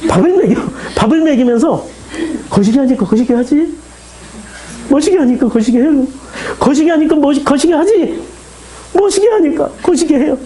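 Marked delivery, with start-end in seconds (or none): 2.5-10.4 Jeolla dialogue rising higher and higher; pleading Jeolla-accented exchange; Jeolla dialect. Acted. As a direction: build the back-and-forth in Jeolla dialect. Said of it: "이게 지금 전라도 말로".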